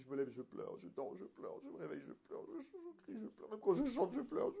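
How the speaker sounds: imite une femme qui geint, voix lointaine; plainte larmoyante. Retold or imitated. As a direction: geindre comme une femme à bout. (imitation d'une femme plaintive)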